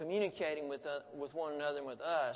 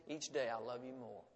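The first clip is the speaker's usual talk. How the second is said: soft and smiling; 4 semitones lower, 6 dB quieter than usual. A narrator's reading. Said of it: "Her mother smiled and softly said".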